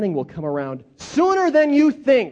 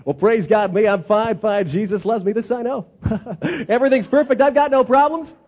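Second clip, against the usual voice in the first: lightly voiced chirpy fake Christian; mock cheerful phony. Mocking Sunday-only people who greet you, lightly chirpy. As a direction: play the too-happy churchgoer. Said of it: "They come up to you".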